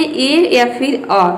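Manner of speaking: drawn-out ए then अ, vowel by vowel; slow sound demo. Shown as a demonstration. Teacher slowly models the two vowel sounds for students. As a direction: stretch each vowel slowly for the class. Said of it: "ईए को हम क्या pronounce करते हैं".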